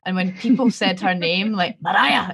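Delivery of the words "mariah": Scottish Mariah. Retold or imitated. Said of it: "it sounded so Scottish and aggressive".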